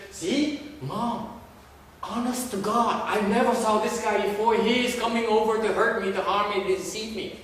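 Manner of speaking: loud, high mock protest to a parent; hammed-up indignant tattling, pitched high; aggrieved complainer. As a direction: play a wronged kid pleading innocence at full volume. Acts aggrieved student complaining to Mom.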